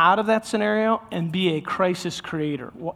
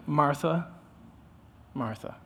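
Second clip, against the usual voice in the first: tender calling; 4 dB quieter, slower than usual. Shown as a demonstration. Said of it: "he calls her by name".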